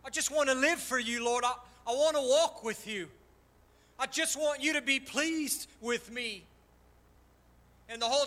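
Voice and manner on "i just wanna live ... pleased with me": tearful prayer. Retold or imitated. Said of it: "I remember, I'm crying".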